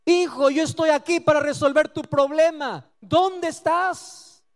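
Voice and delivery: slow, drawn-out tender call; God calling. Acted. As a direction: call out slowly like a searching father. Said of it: "la pregunta de Dios continúa".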